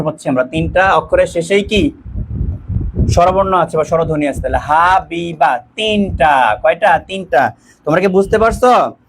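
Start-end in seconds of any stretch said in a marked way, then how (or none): 4.6-5.6 "হা, বি, বা" in three separate beats; split into syllables. Shown as a demonstration. Teacher counting parts for students, "হা, বি, বা" syllable by syllable. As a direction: mark off each syllable of "হা, বি, বা".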